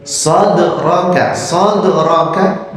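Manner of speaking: "sadraka" slow with a light echo bounce on the d; qalqalah on dal. Shown as a demonstration. Teacher showing qalqalah sughra on the dal. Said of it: "dalnya harus terdengar qalqalahnya".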